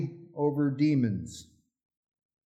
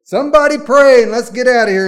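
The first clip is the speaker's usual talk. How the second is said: put-on high, loud old lady pleading; old lady at the nursing home, high and loud; impatient old lady; 7 semitones higher, 11 dB louder, faster than usual. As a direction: mimic the fed-up old lady. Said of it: "she goes".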